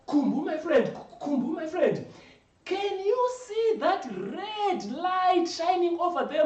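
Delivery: high, eager hype about Johannesburg; excited friend. Acted. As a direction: sell the dream to your buddy.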